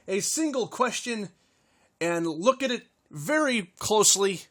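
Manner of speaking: upbeat announcer opening the show; show host intro. Acted. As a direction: welcome the audience like a host.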